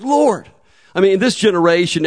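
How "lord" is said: exasperated cry. Retold or imitated. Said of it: "You know, I was like".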